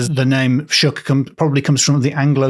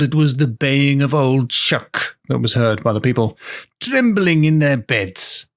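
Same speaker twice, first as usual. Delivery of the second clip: put-on old times voice. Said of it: "so I'm just doing an old times voice".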